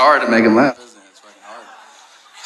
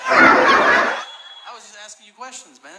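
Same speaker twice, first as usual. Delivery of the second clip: laughing protest; 6 semitones higher, slower than usual. Real, not acted.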